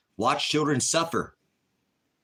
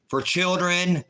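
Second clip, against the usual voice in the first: pitched-up disbelieving repeat; incredulous echo; 6 semitones higher, slower than usual. Real, not acted. Streamer repeats it to chat, incredulous. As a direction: throw it back in disbelief.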